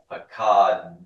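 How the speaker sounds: "Pakad" with "d" and "t" run together at the end; final consonant cluster. Shown as a demonstration. Teacher explaining silent shavas, clustered ending on "Pakad". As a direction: hold the "ka" of "Pakad", then release the end consonants. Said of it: "consonant cluster at the end".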